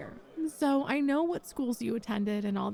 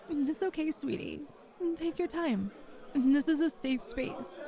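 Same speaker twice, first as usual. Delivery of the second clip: gentle reassurance; 2 semitones higher than usual. Acted. Interviewer to hesitant applicant, gently reassuring. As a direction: put them at ease, tenderly.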